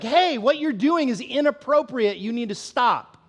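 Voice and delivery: a mild hint of a firm parent; lightly voiced stern correction; with authority. A parent telling kids to stop, mildly firm. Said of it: "spoken to with authority".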